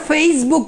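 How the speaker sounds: Facebook with a drawn-out "feis"; smart pronunciation. Shown as a demonstration. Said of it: "উচ্চারণ করছে".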